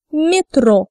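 "Метро" stressed on the final O; stressed O demo. Shown as a demonstration. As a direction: model "Метро" for learners, leaning on the last O. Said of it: "words where O is stressed".

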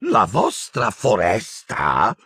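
slow, scornful Umbridge retort; trembling with fear and indignation; indignant outburst. Acted. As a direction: spit it back in disbelief. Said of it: "sbottò la Umbridge".

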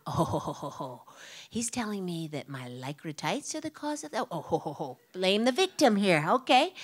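scornful ho ho ho, then a sharp jab; sarcastic mock laugh. Mocking the officers who blame her tights, a sarcastic scoff. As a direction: laugh them off with contempt. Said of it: "I am seething with".

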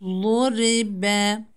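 "lu" as a heavy dad, tongue to the molars; heavy side-tongue "lu" opening the syllables; Arabic dad articulation. Shown as a demonstration. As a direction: say "lu" as thick Arabic du, then "ri, be". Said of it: "Dat harfinin mahreci".

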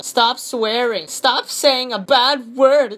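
slow, lightly put-on scolding; mock scolding commenter. Showing viewers a stop-swearing comment, lightly mocked scolding. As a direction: draw out each word in mild mock reproach. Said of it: "you want me to show you?".

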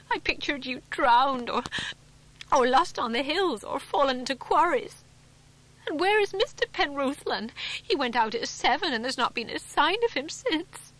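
fretting aloud, close to tears; still upset. A narrator's reading. Upset wife pours out her fears.

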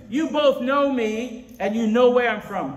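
slow, high, loud proclamation; cried out. Acted. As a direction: cry out the verse to a crowd. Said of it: "But he cried out".

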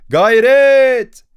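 high, loud shout of effort. Acted. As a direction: bellow at the crew to push. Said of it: "diye bağırıyordu". (yüksek sesle bağırış)

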